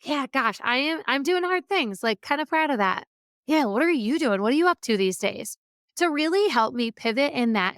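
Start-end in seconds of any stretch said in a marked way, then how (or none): 0.0-5.6 friendly and proud, easy and open; good tone. Shown as a demonstration. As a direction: say it kindly, no edge, then turn the question back warmly. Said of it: "but also in a good tone".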